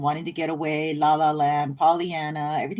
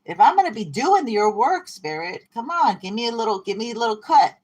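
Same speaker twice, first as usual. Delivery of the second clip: haggling with spirit; 5 semitones higher than usual. Pretend. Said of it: "'cause you're like".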